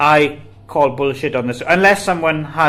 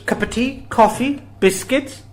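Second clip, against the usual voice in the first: sing-song offer; 10 semitones higher than usual. Acted. Listing refreshments in sing-song.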